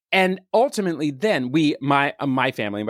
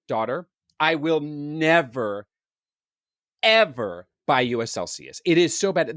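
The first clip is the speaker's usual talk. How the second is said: firm stand. Retold or imitated. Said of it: "hard stand and said".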